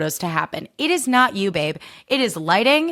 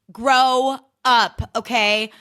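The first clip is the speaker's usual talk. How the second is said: sassy catchphrase; 3 semitones higher, much slower than usual. Real, not acted. Segment title catchphrase.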